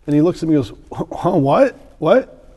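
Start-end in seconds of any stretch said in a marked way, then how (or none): 1.1-2.5 higher-pitched puzzled what; mock startled, questioning; caught off guard. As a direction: act like someone just interrupted you. Interrupted bricklayer in retold parable.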